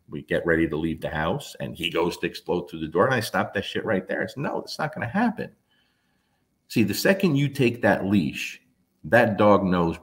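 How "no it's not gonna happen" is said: firm command. Retold or imitated. Stopping the dog at the door.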